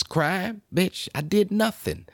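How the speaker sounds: high, incredulous protest; shocked he's branded a criminal; outraged disbelief. Real, not acted. Vlogger protesting the newsletter, high and incredulous.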